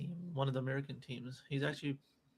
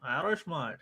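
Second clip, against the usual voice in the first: attempted Irish accent; 6 dB louder than usual. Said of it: "Can you do an I-, Irish accent?".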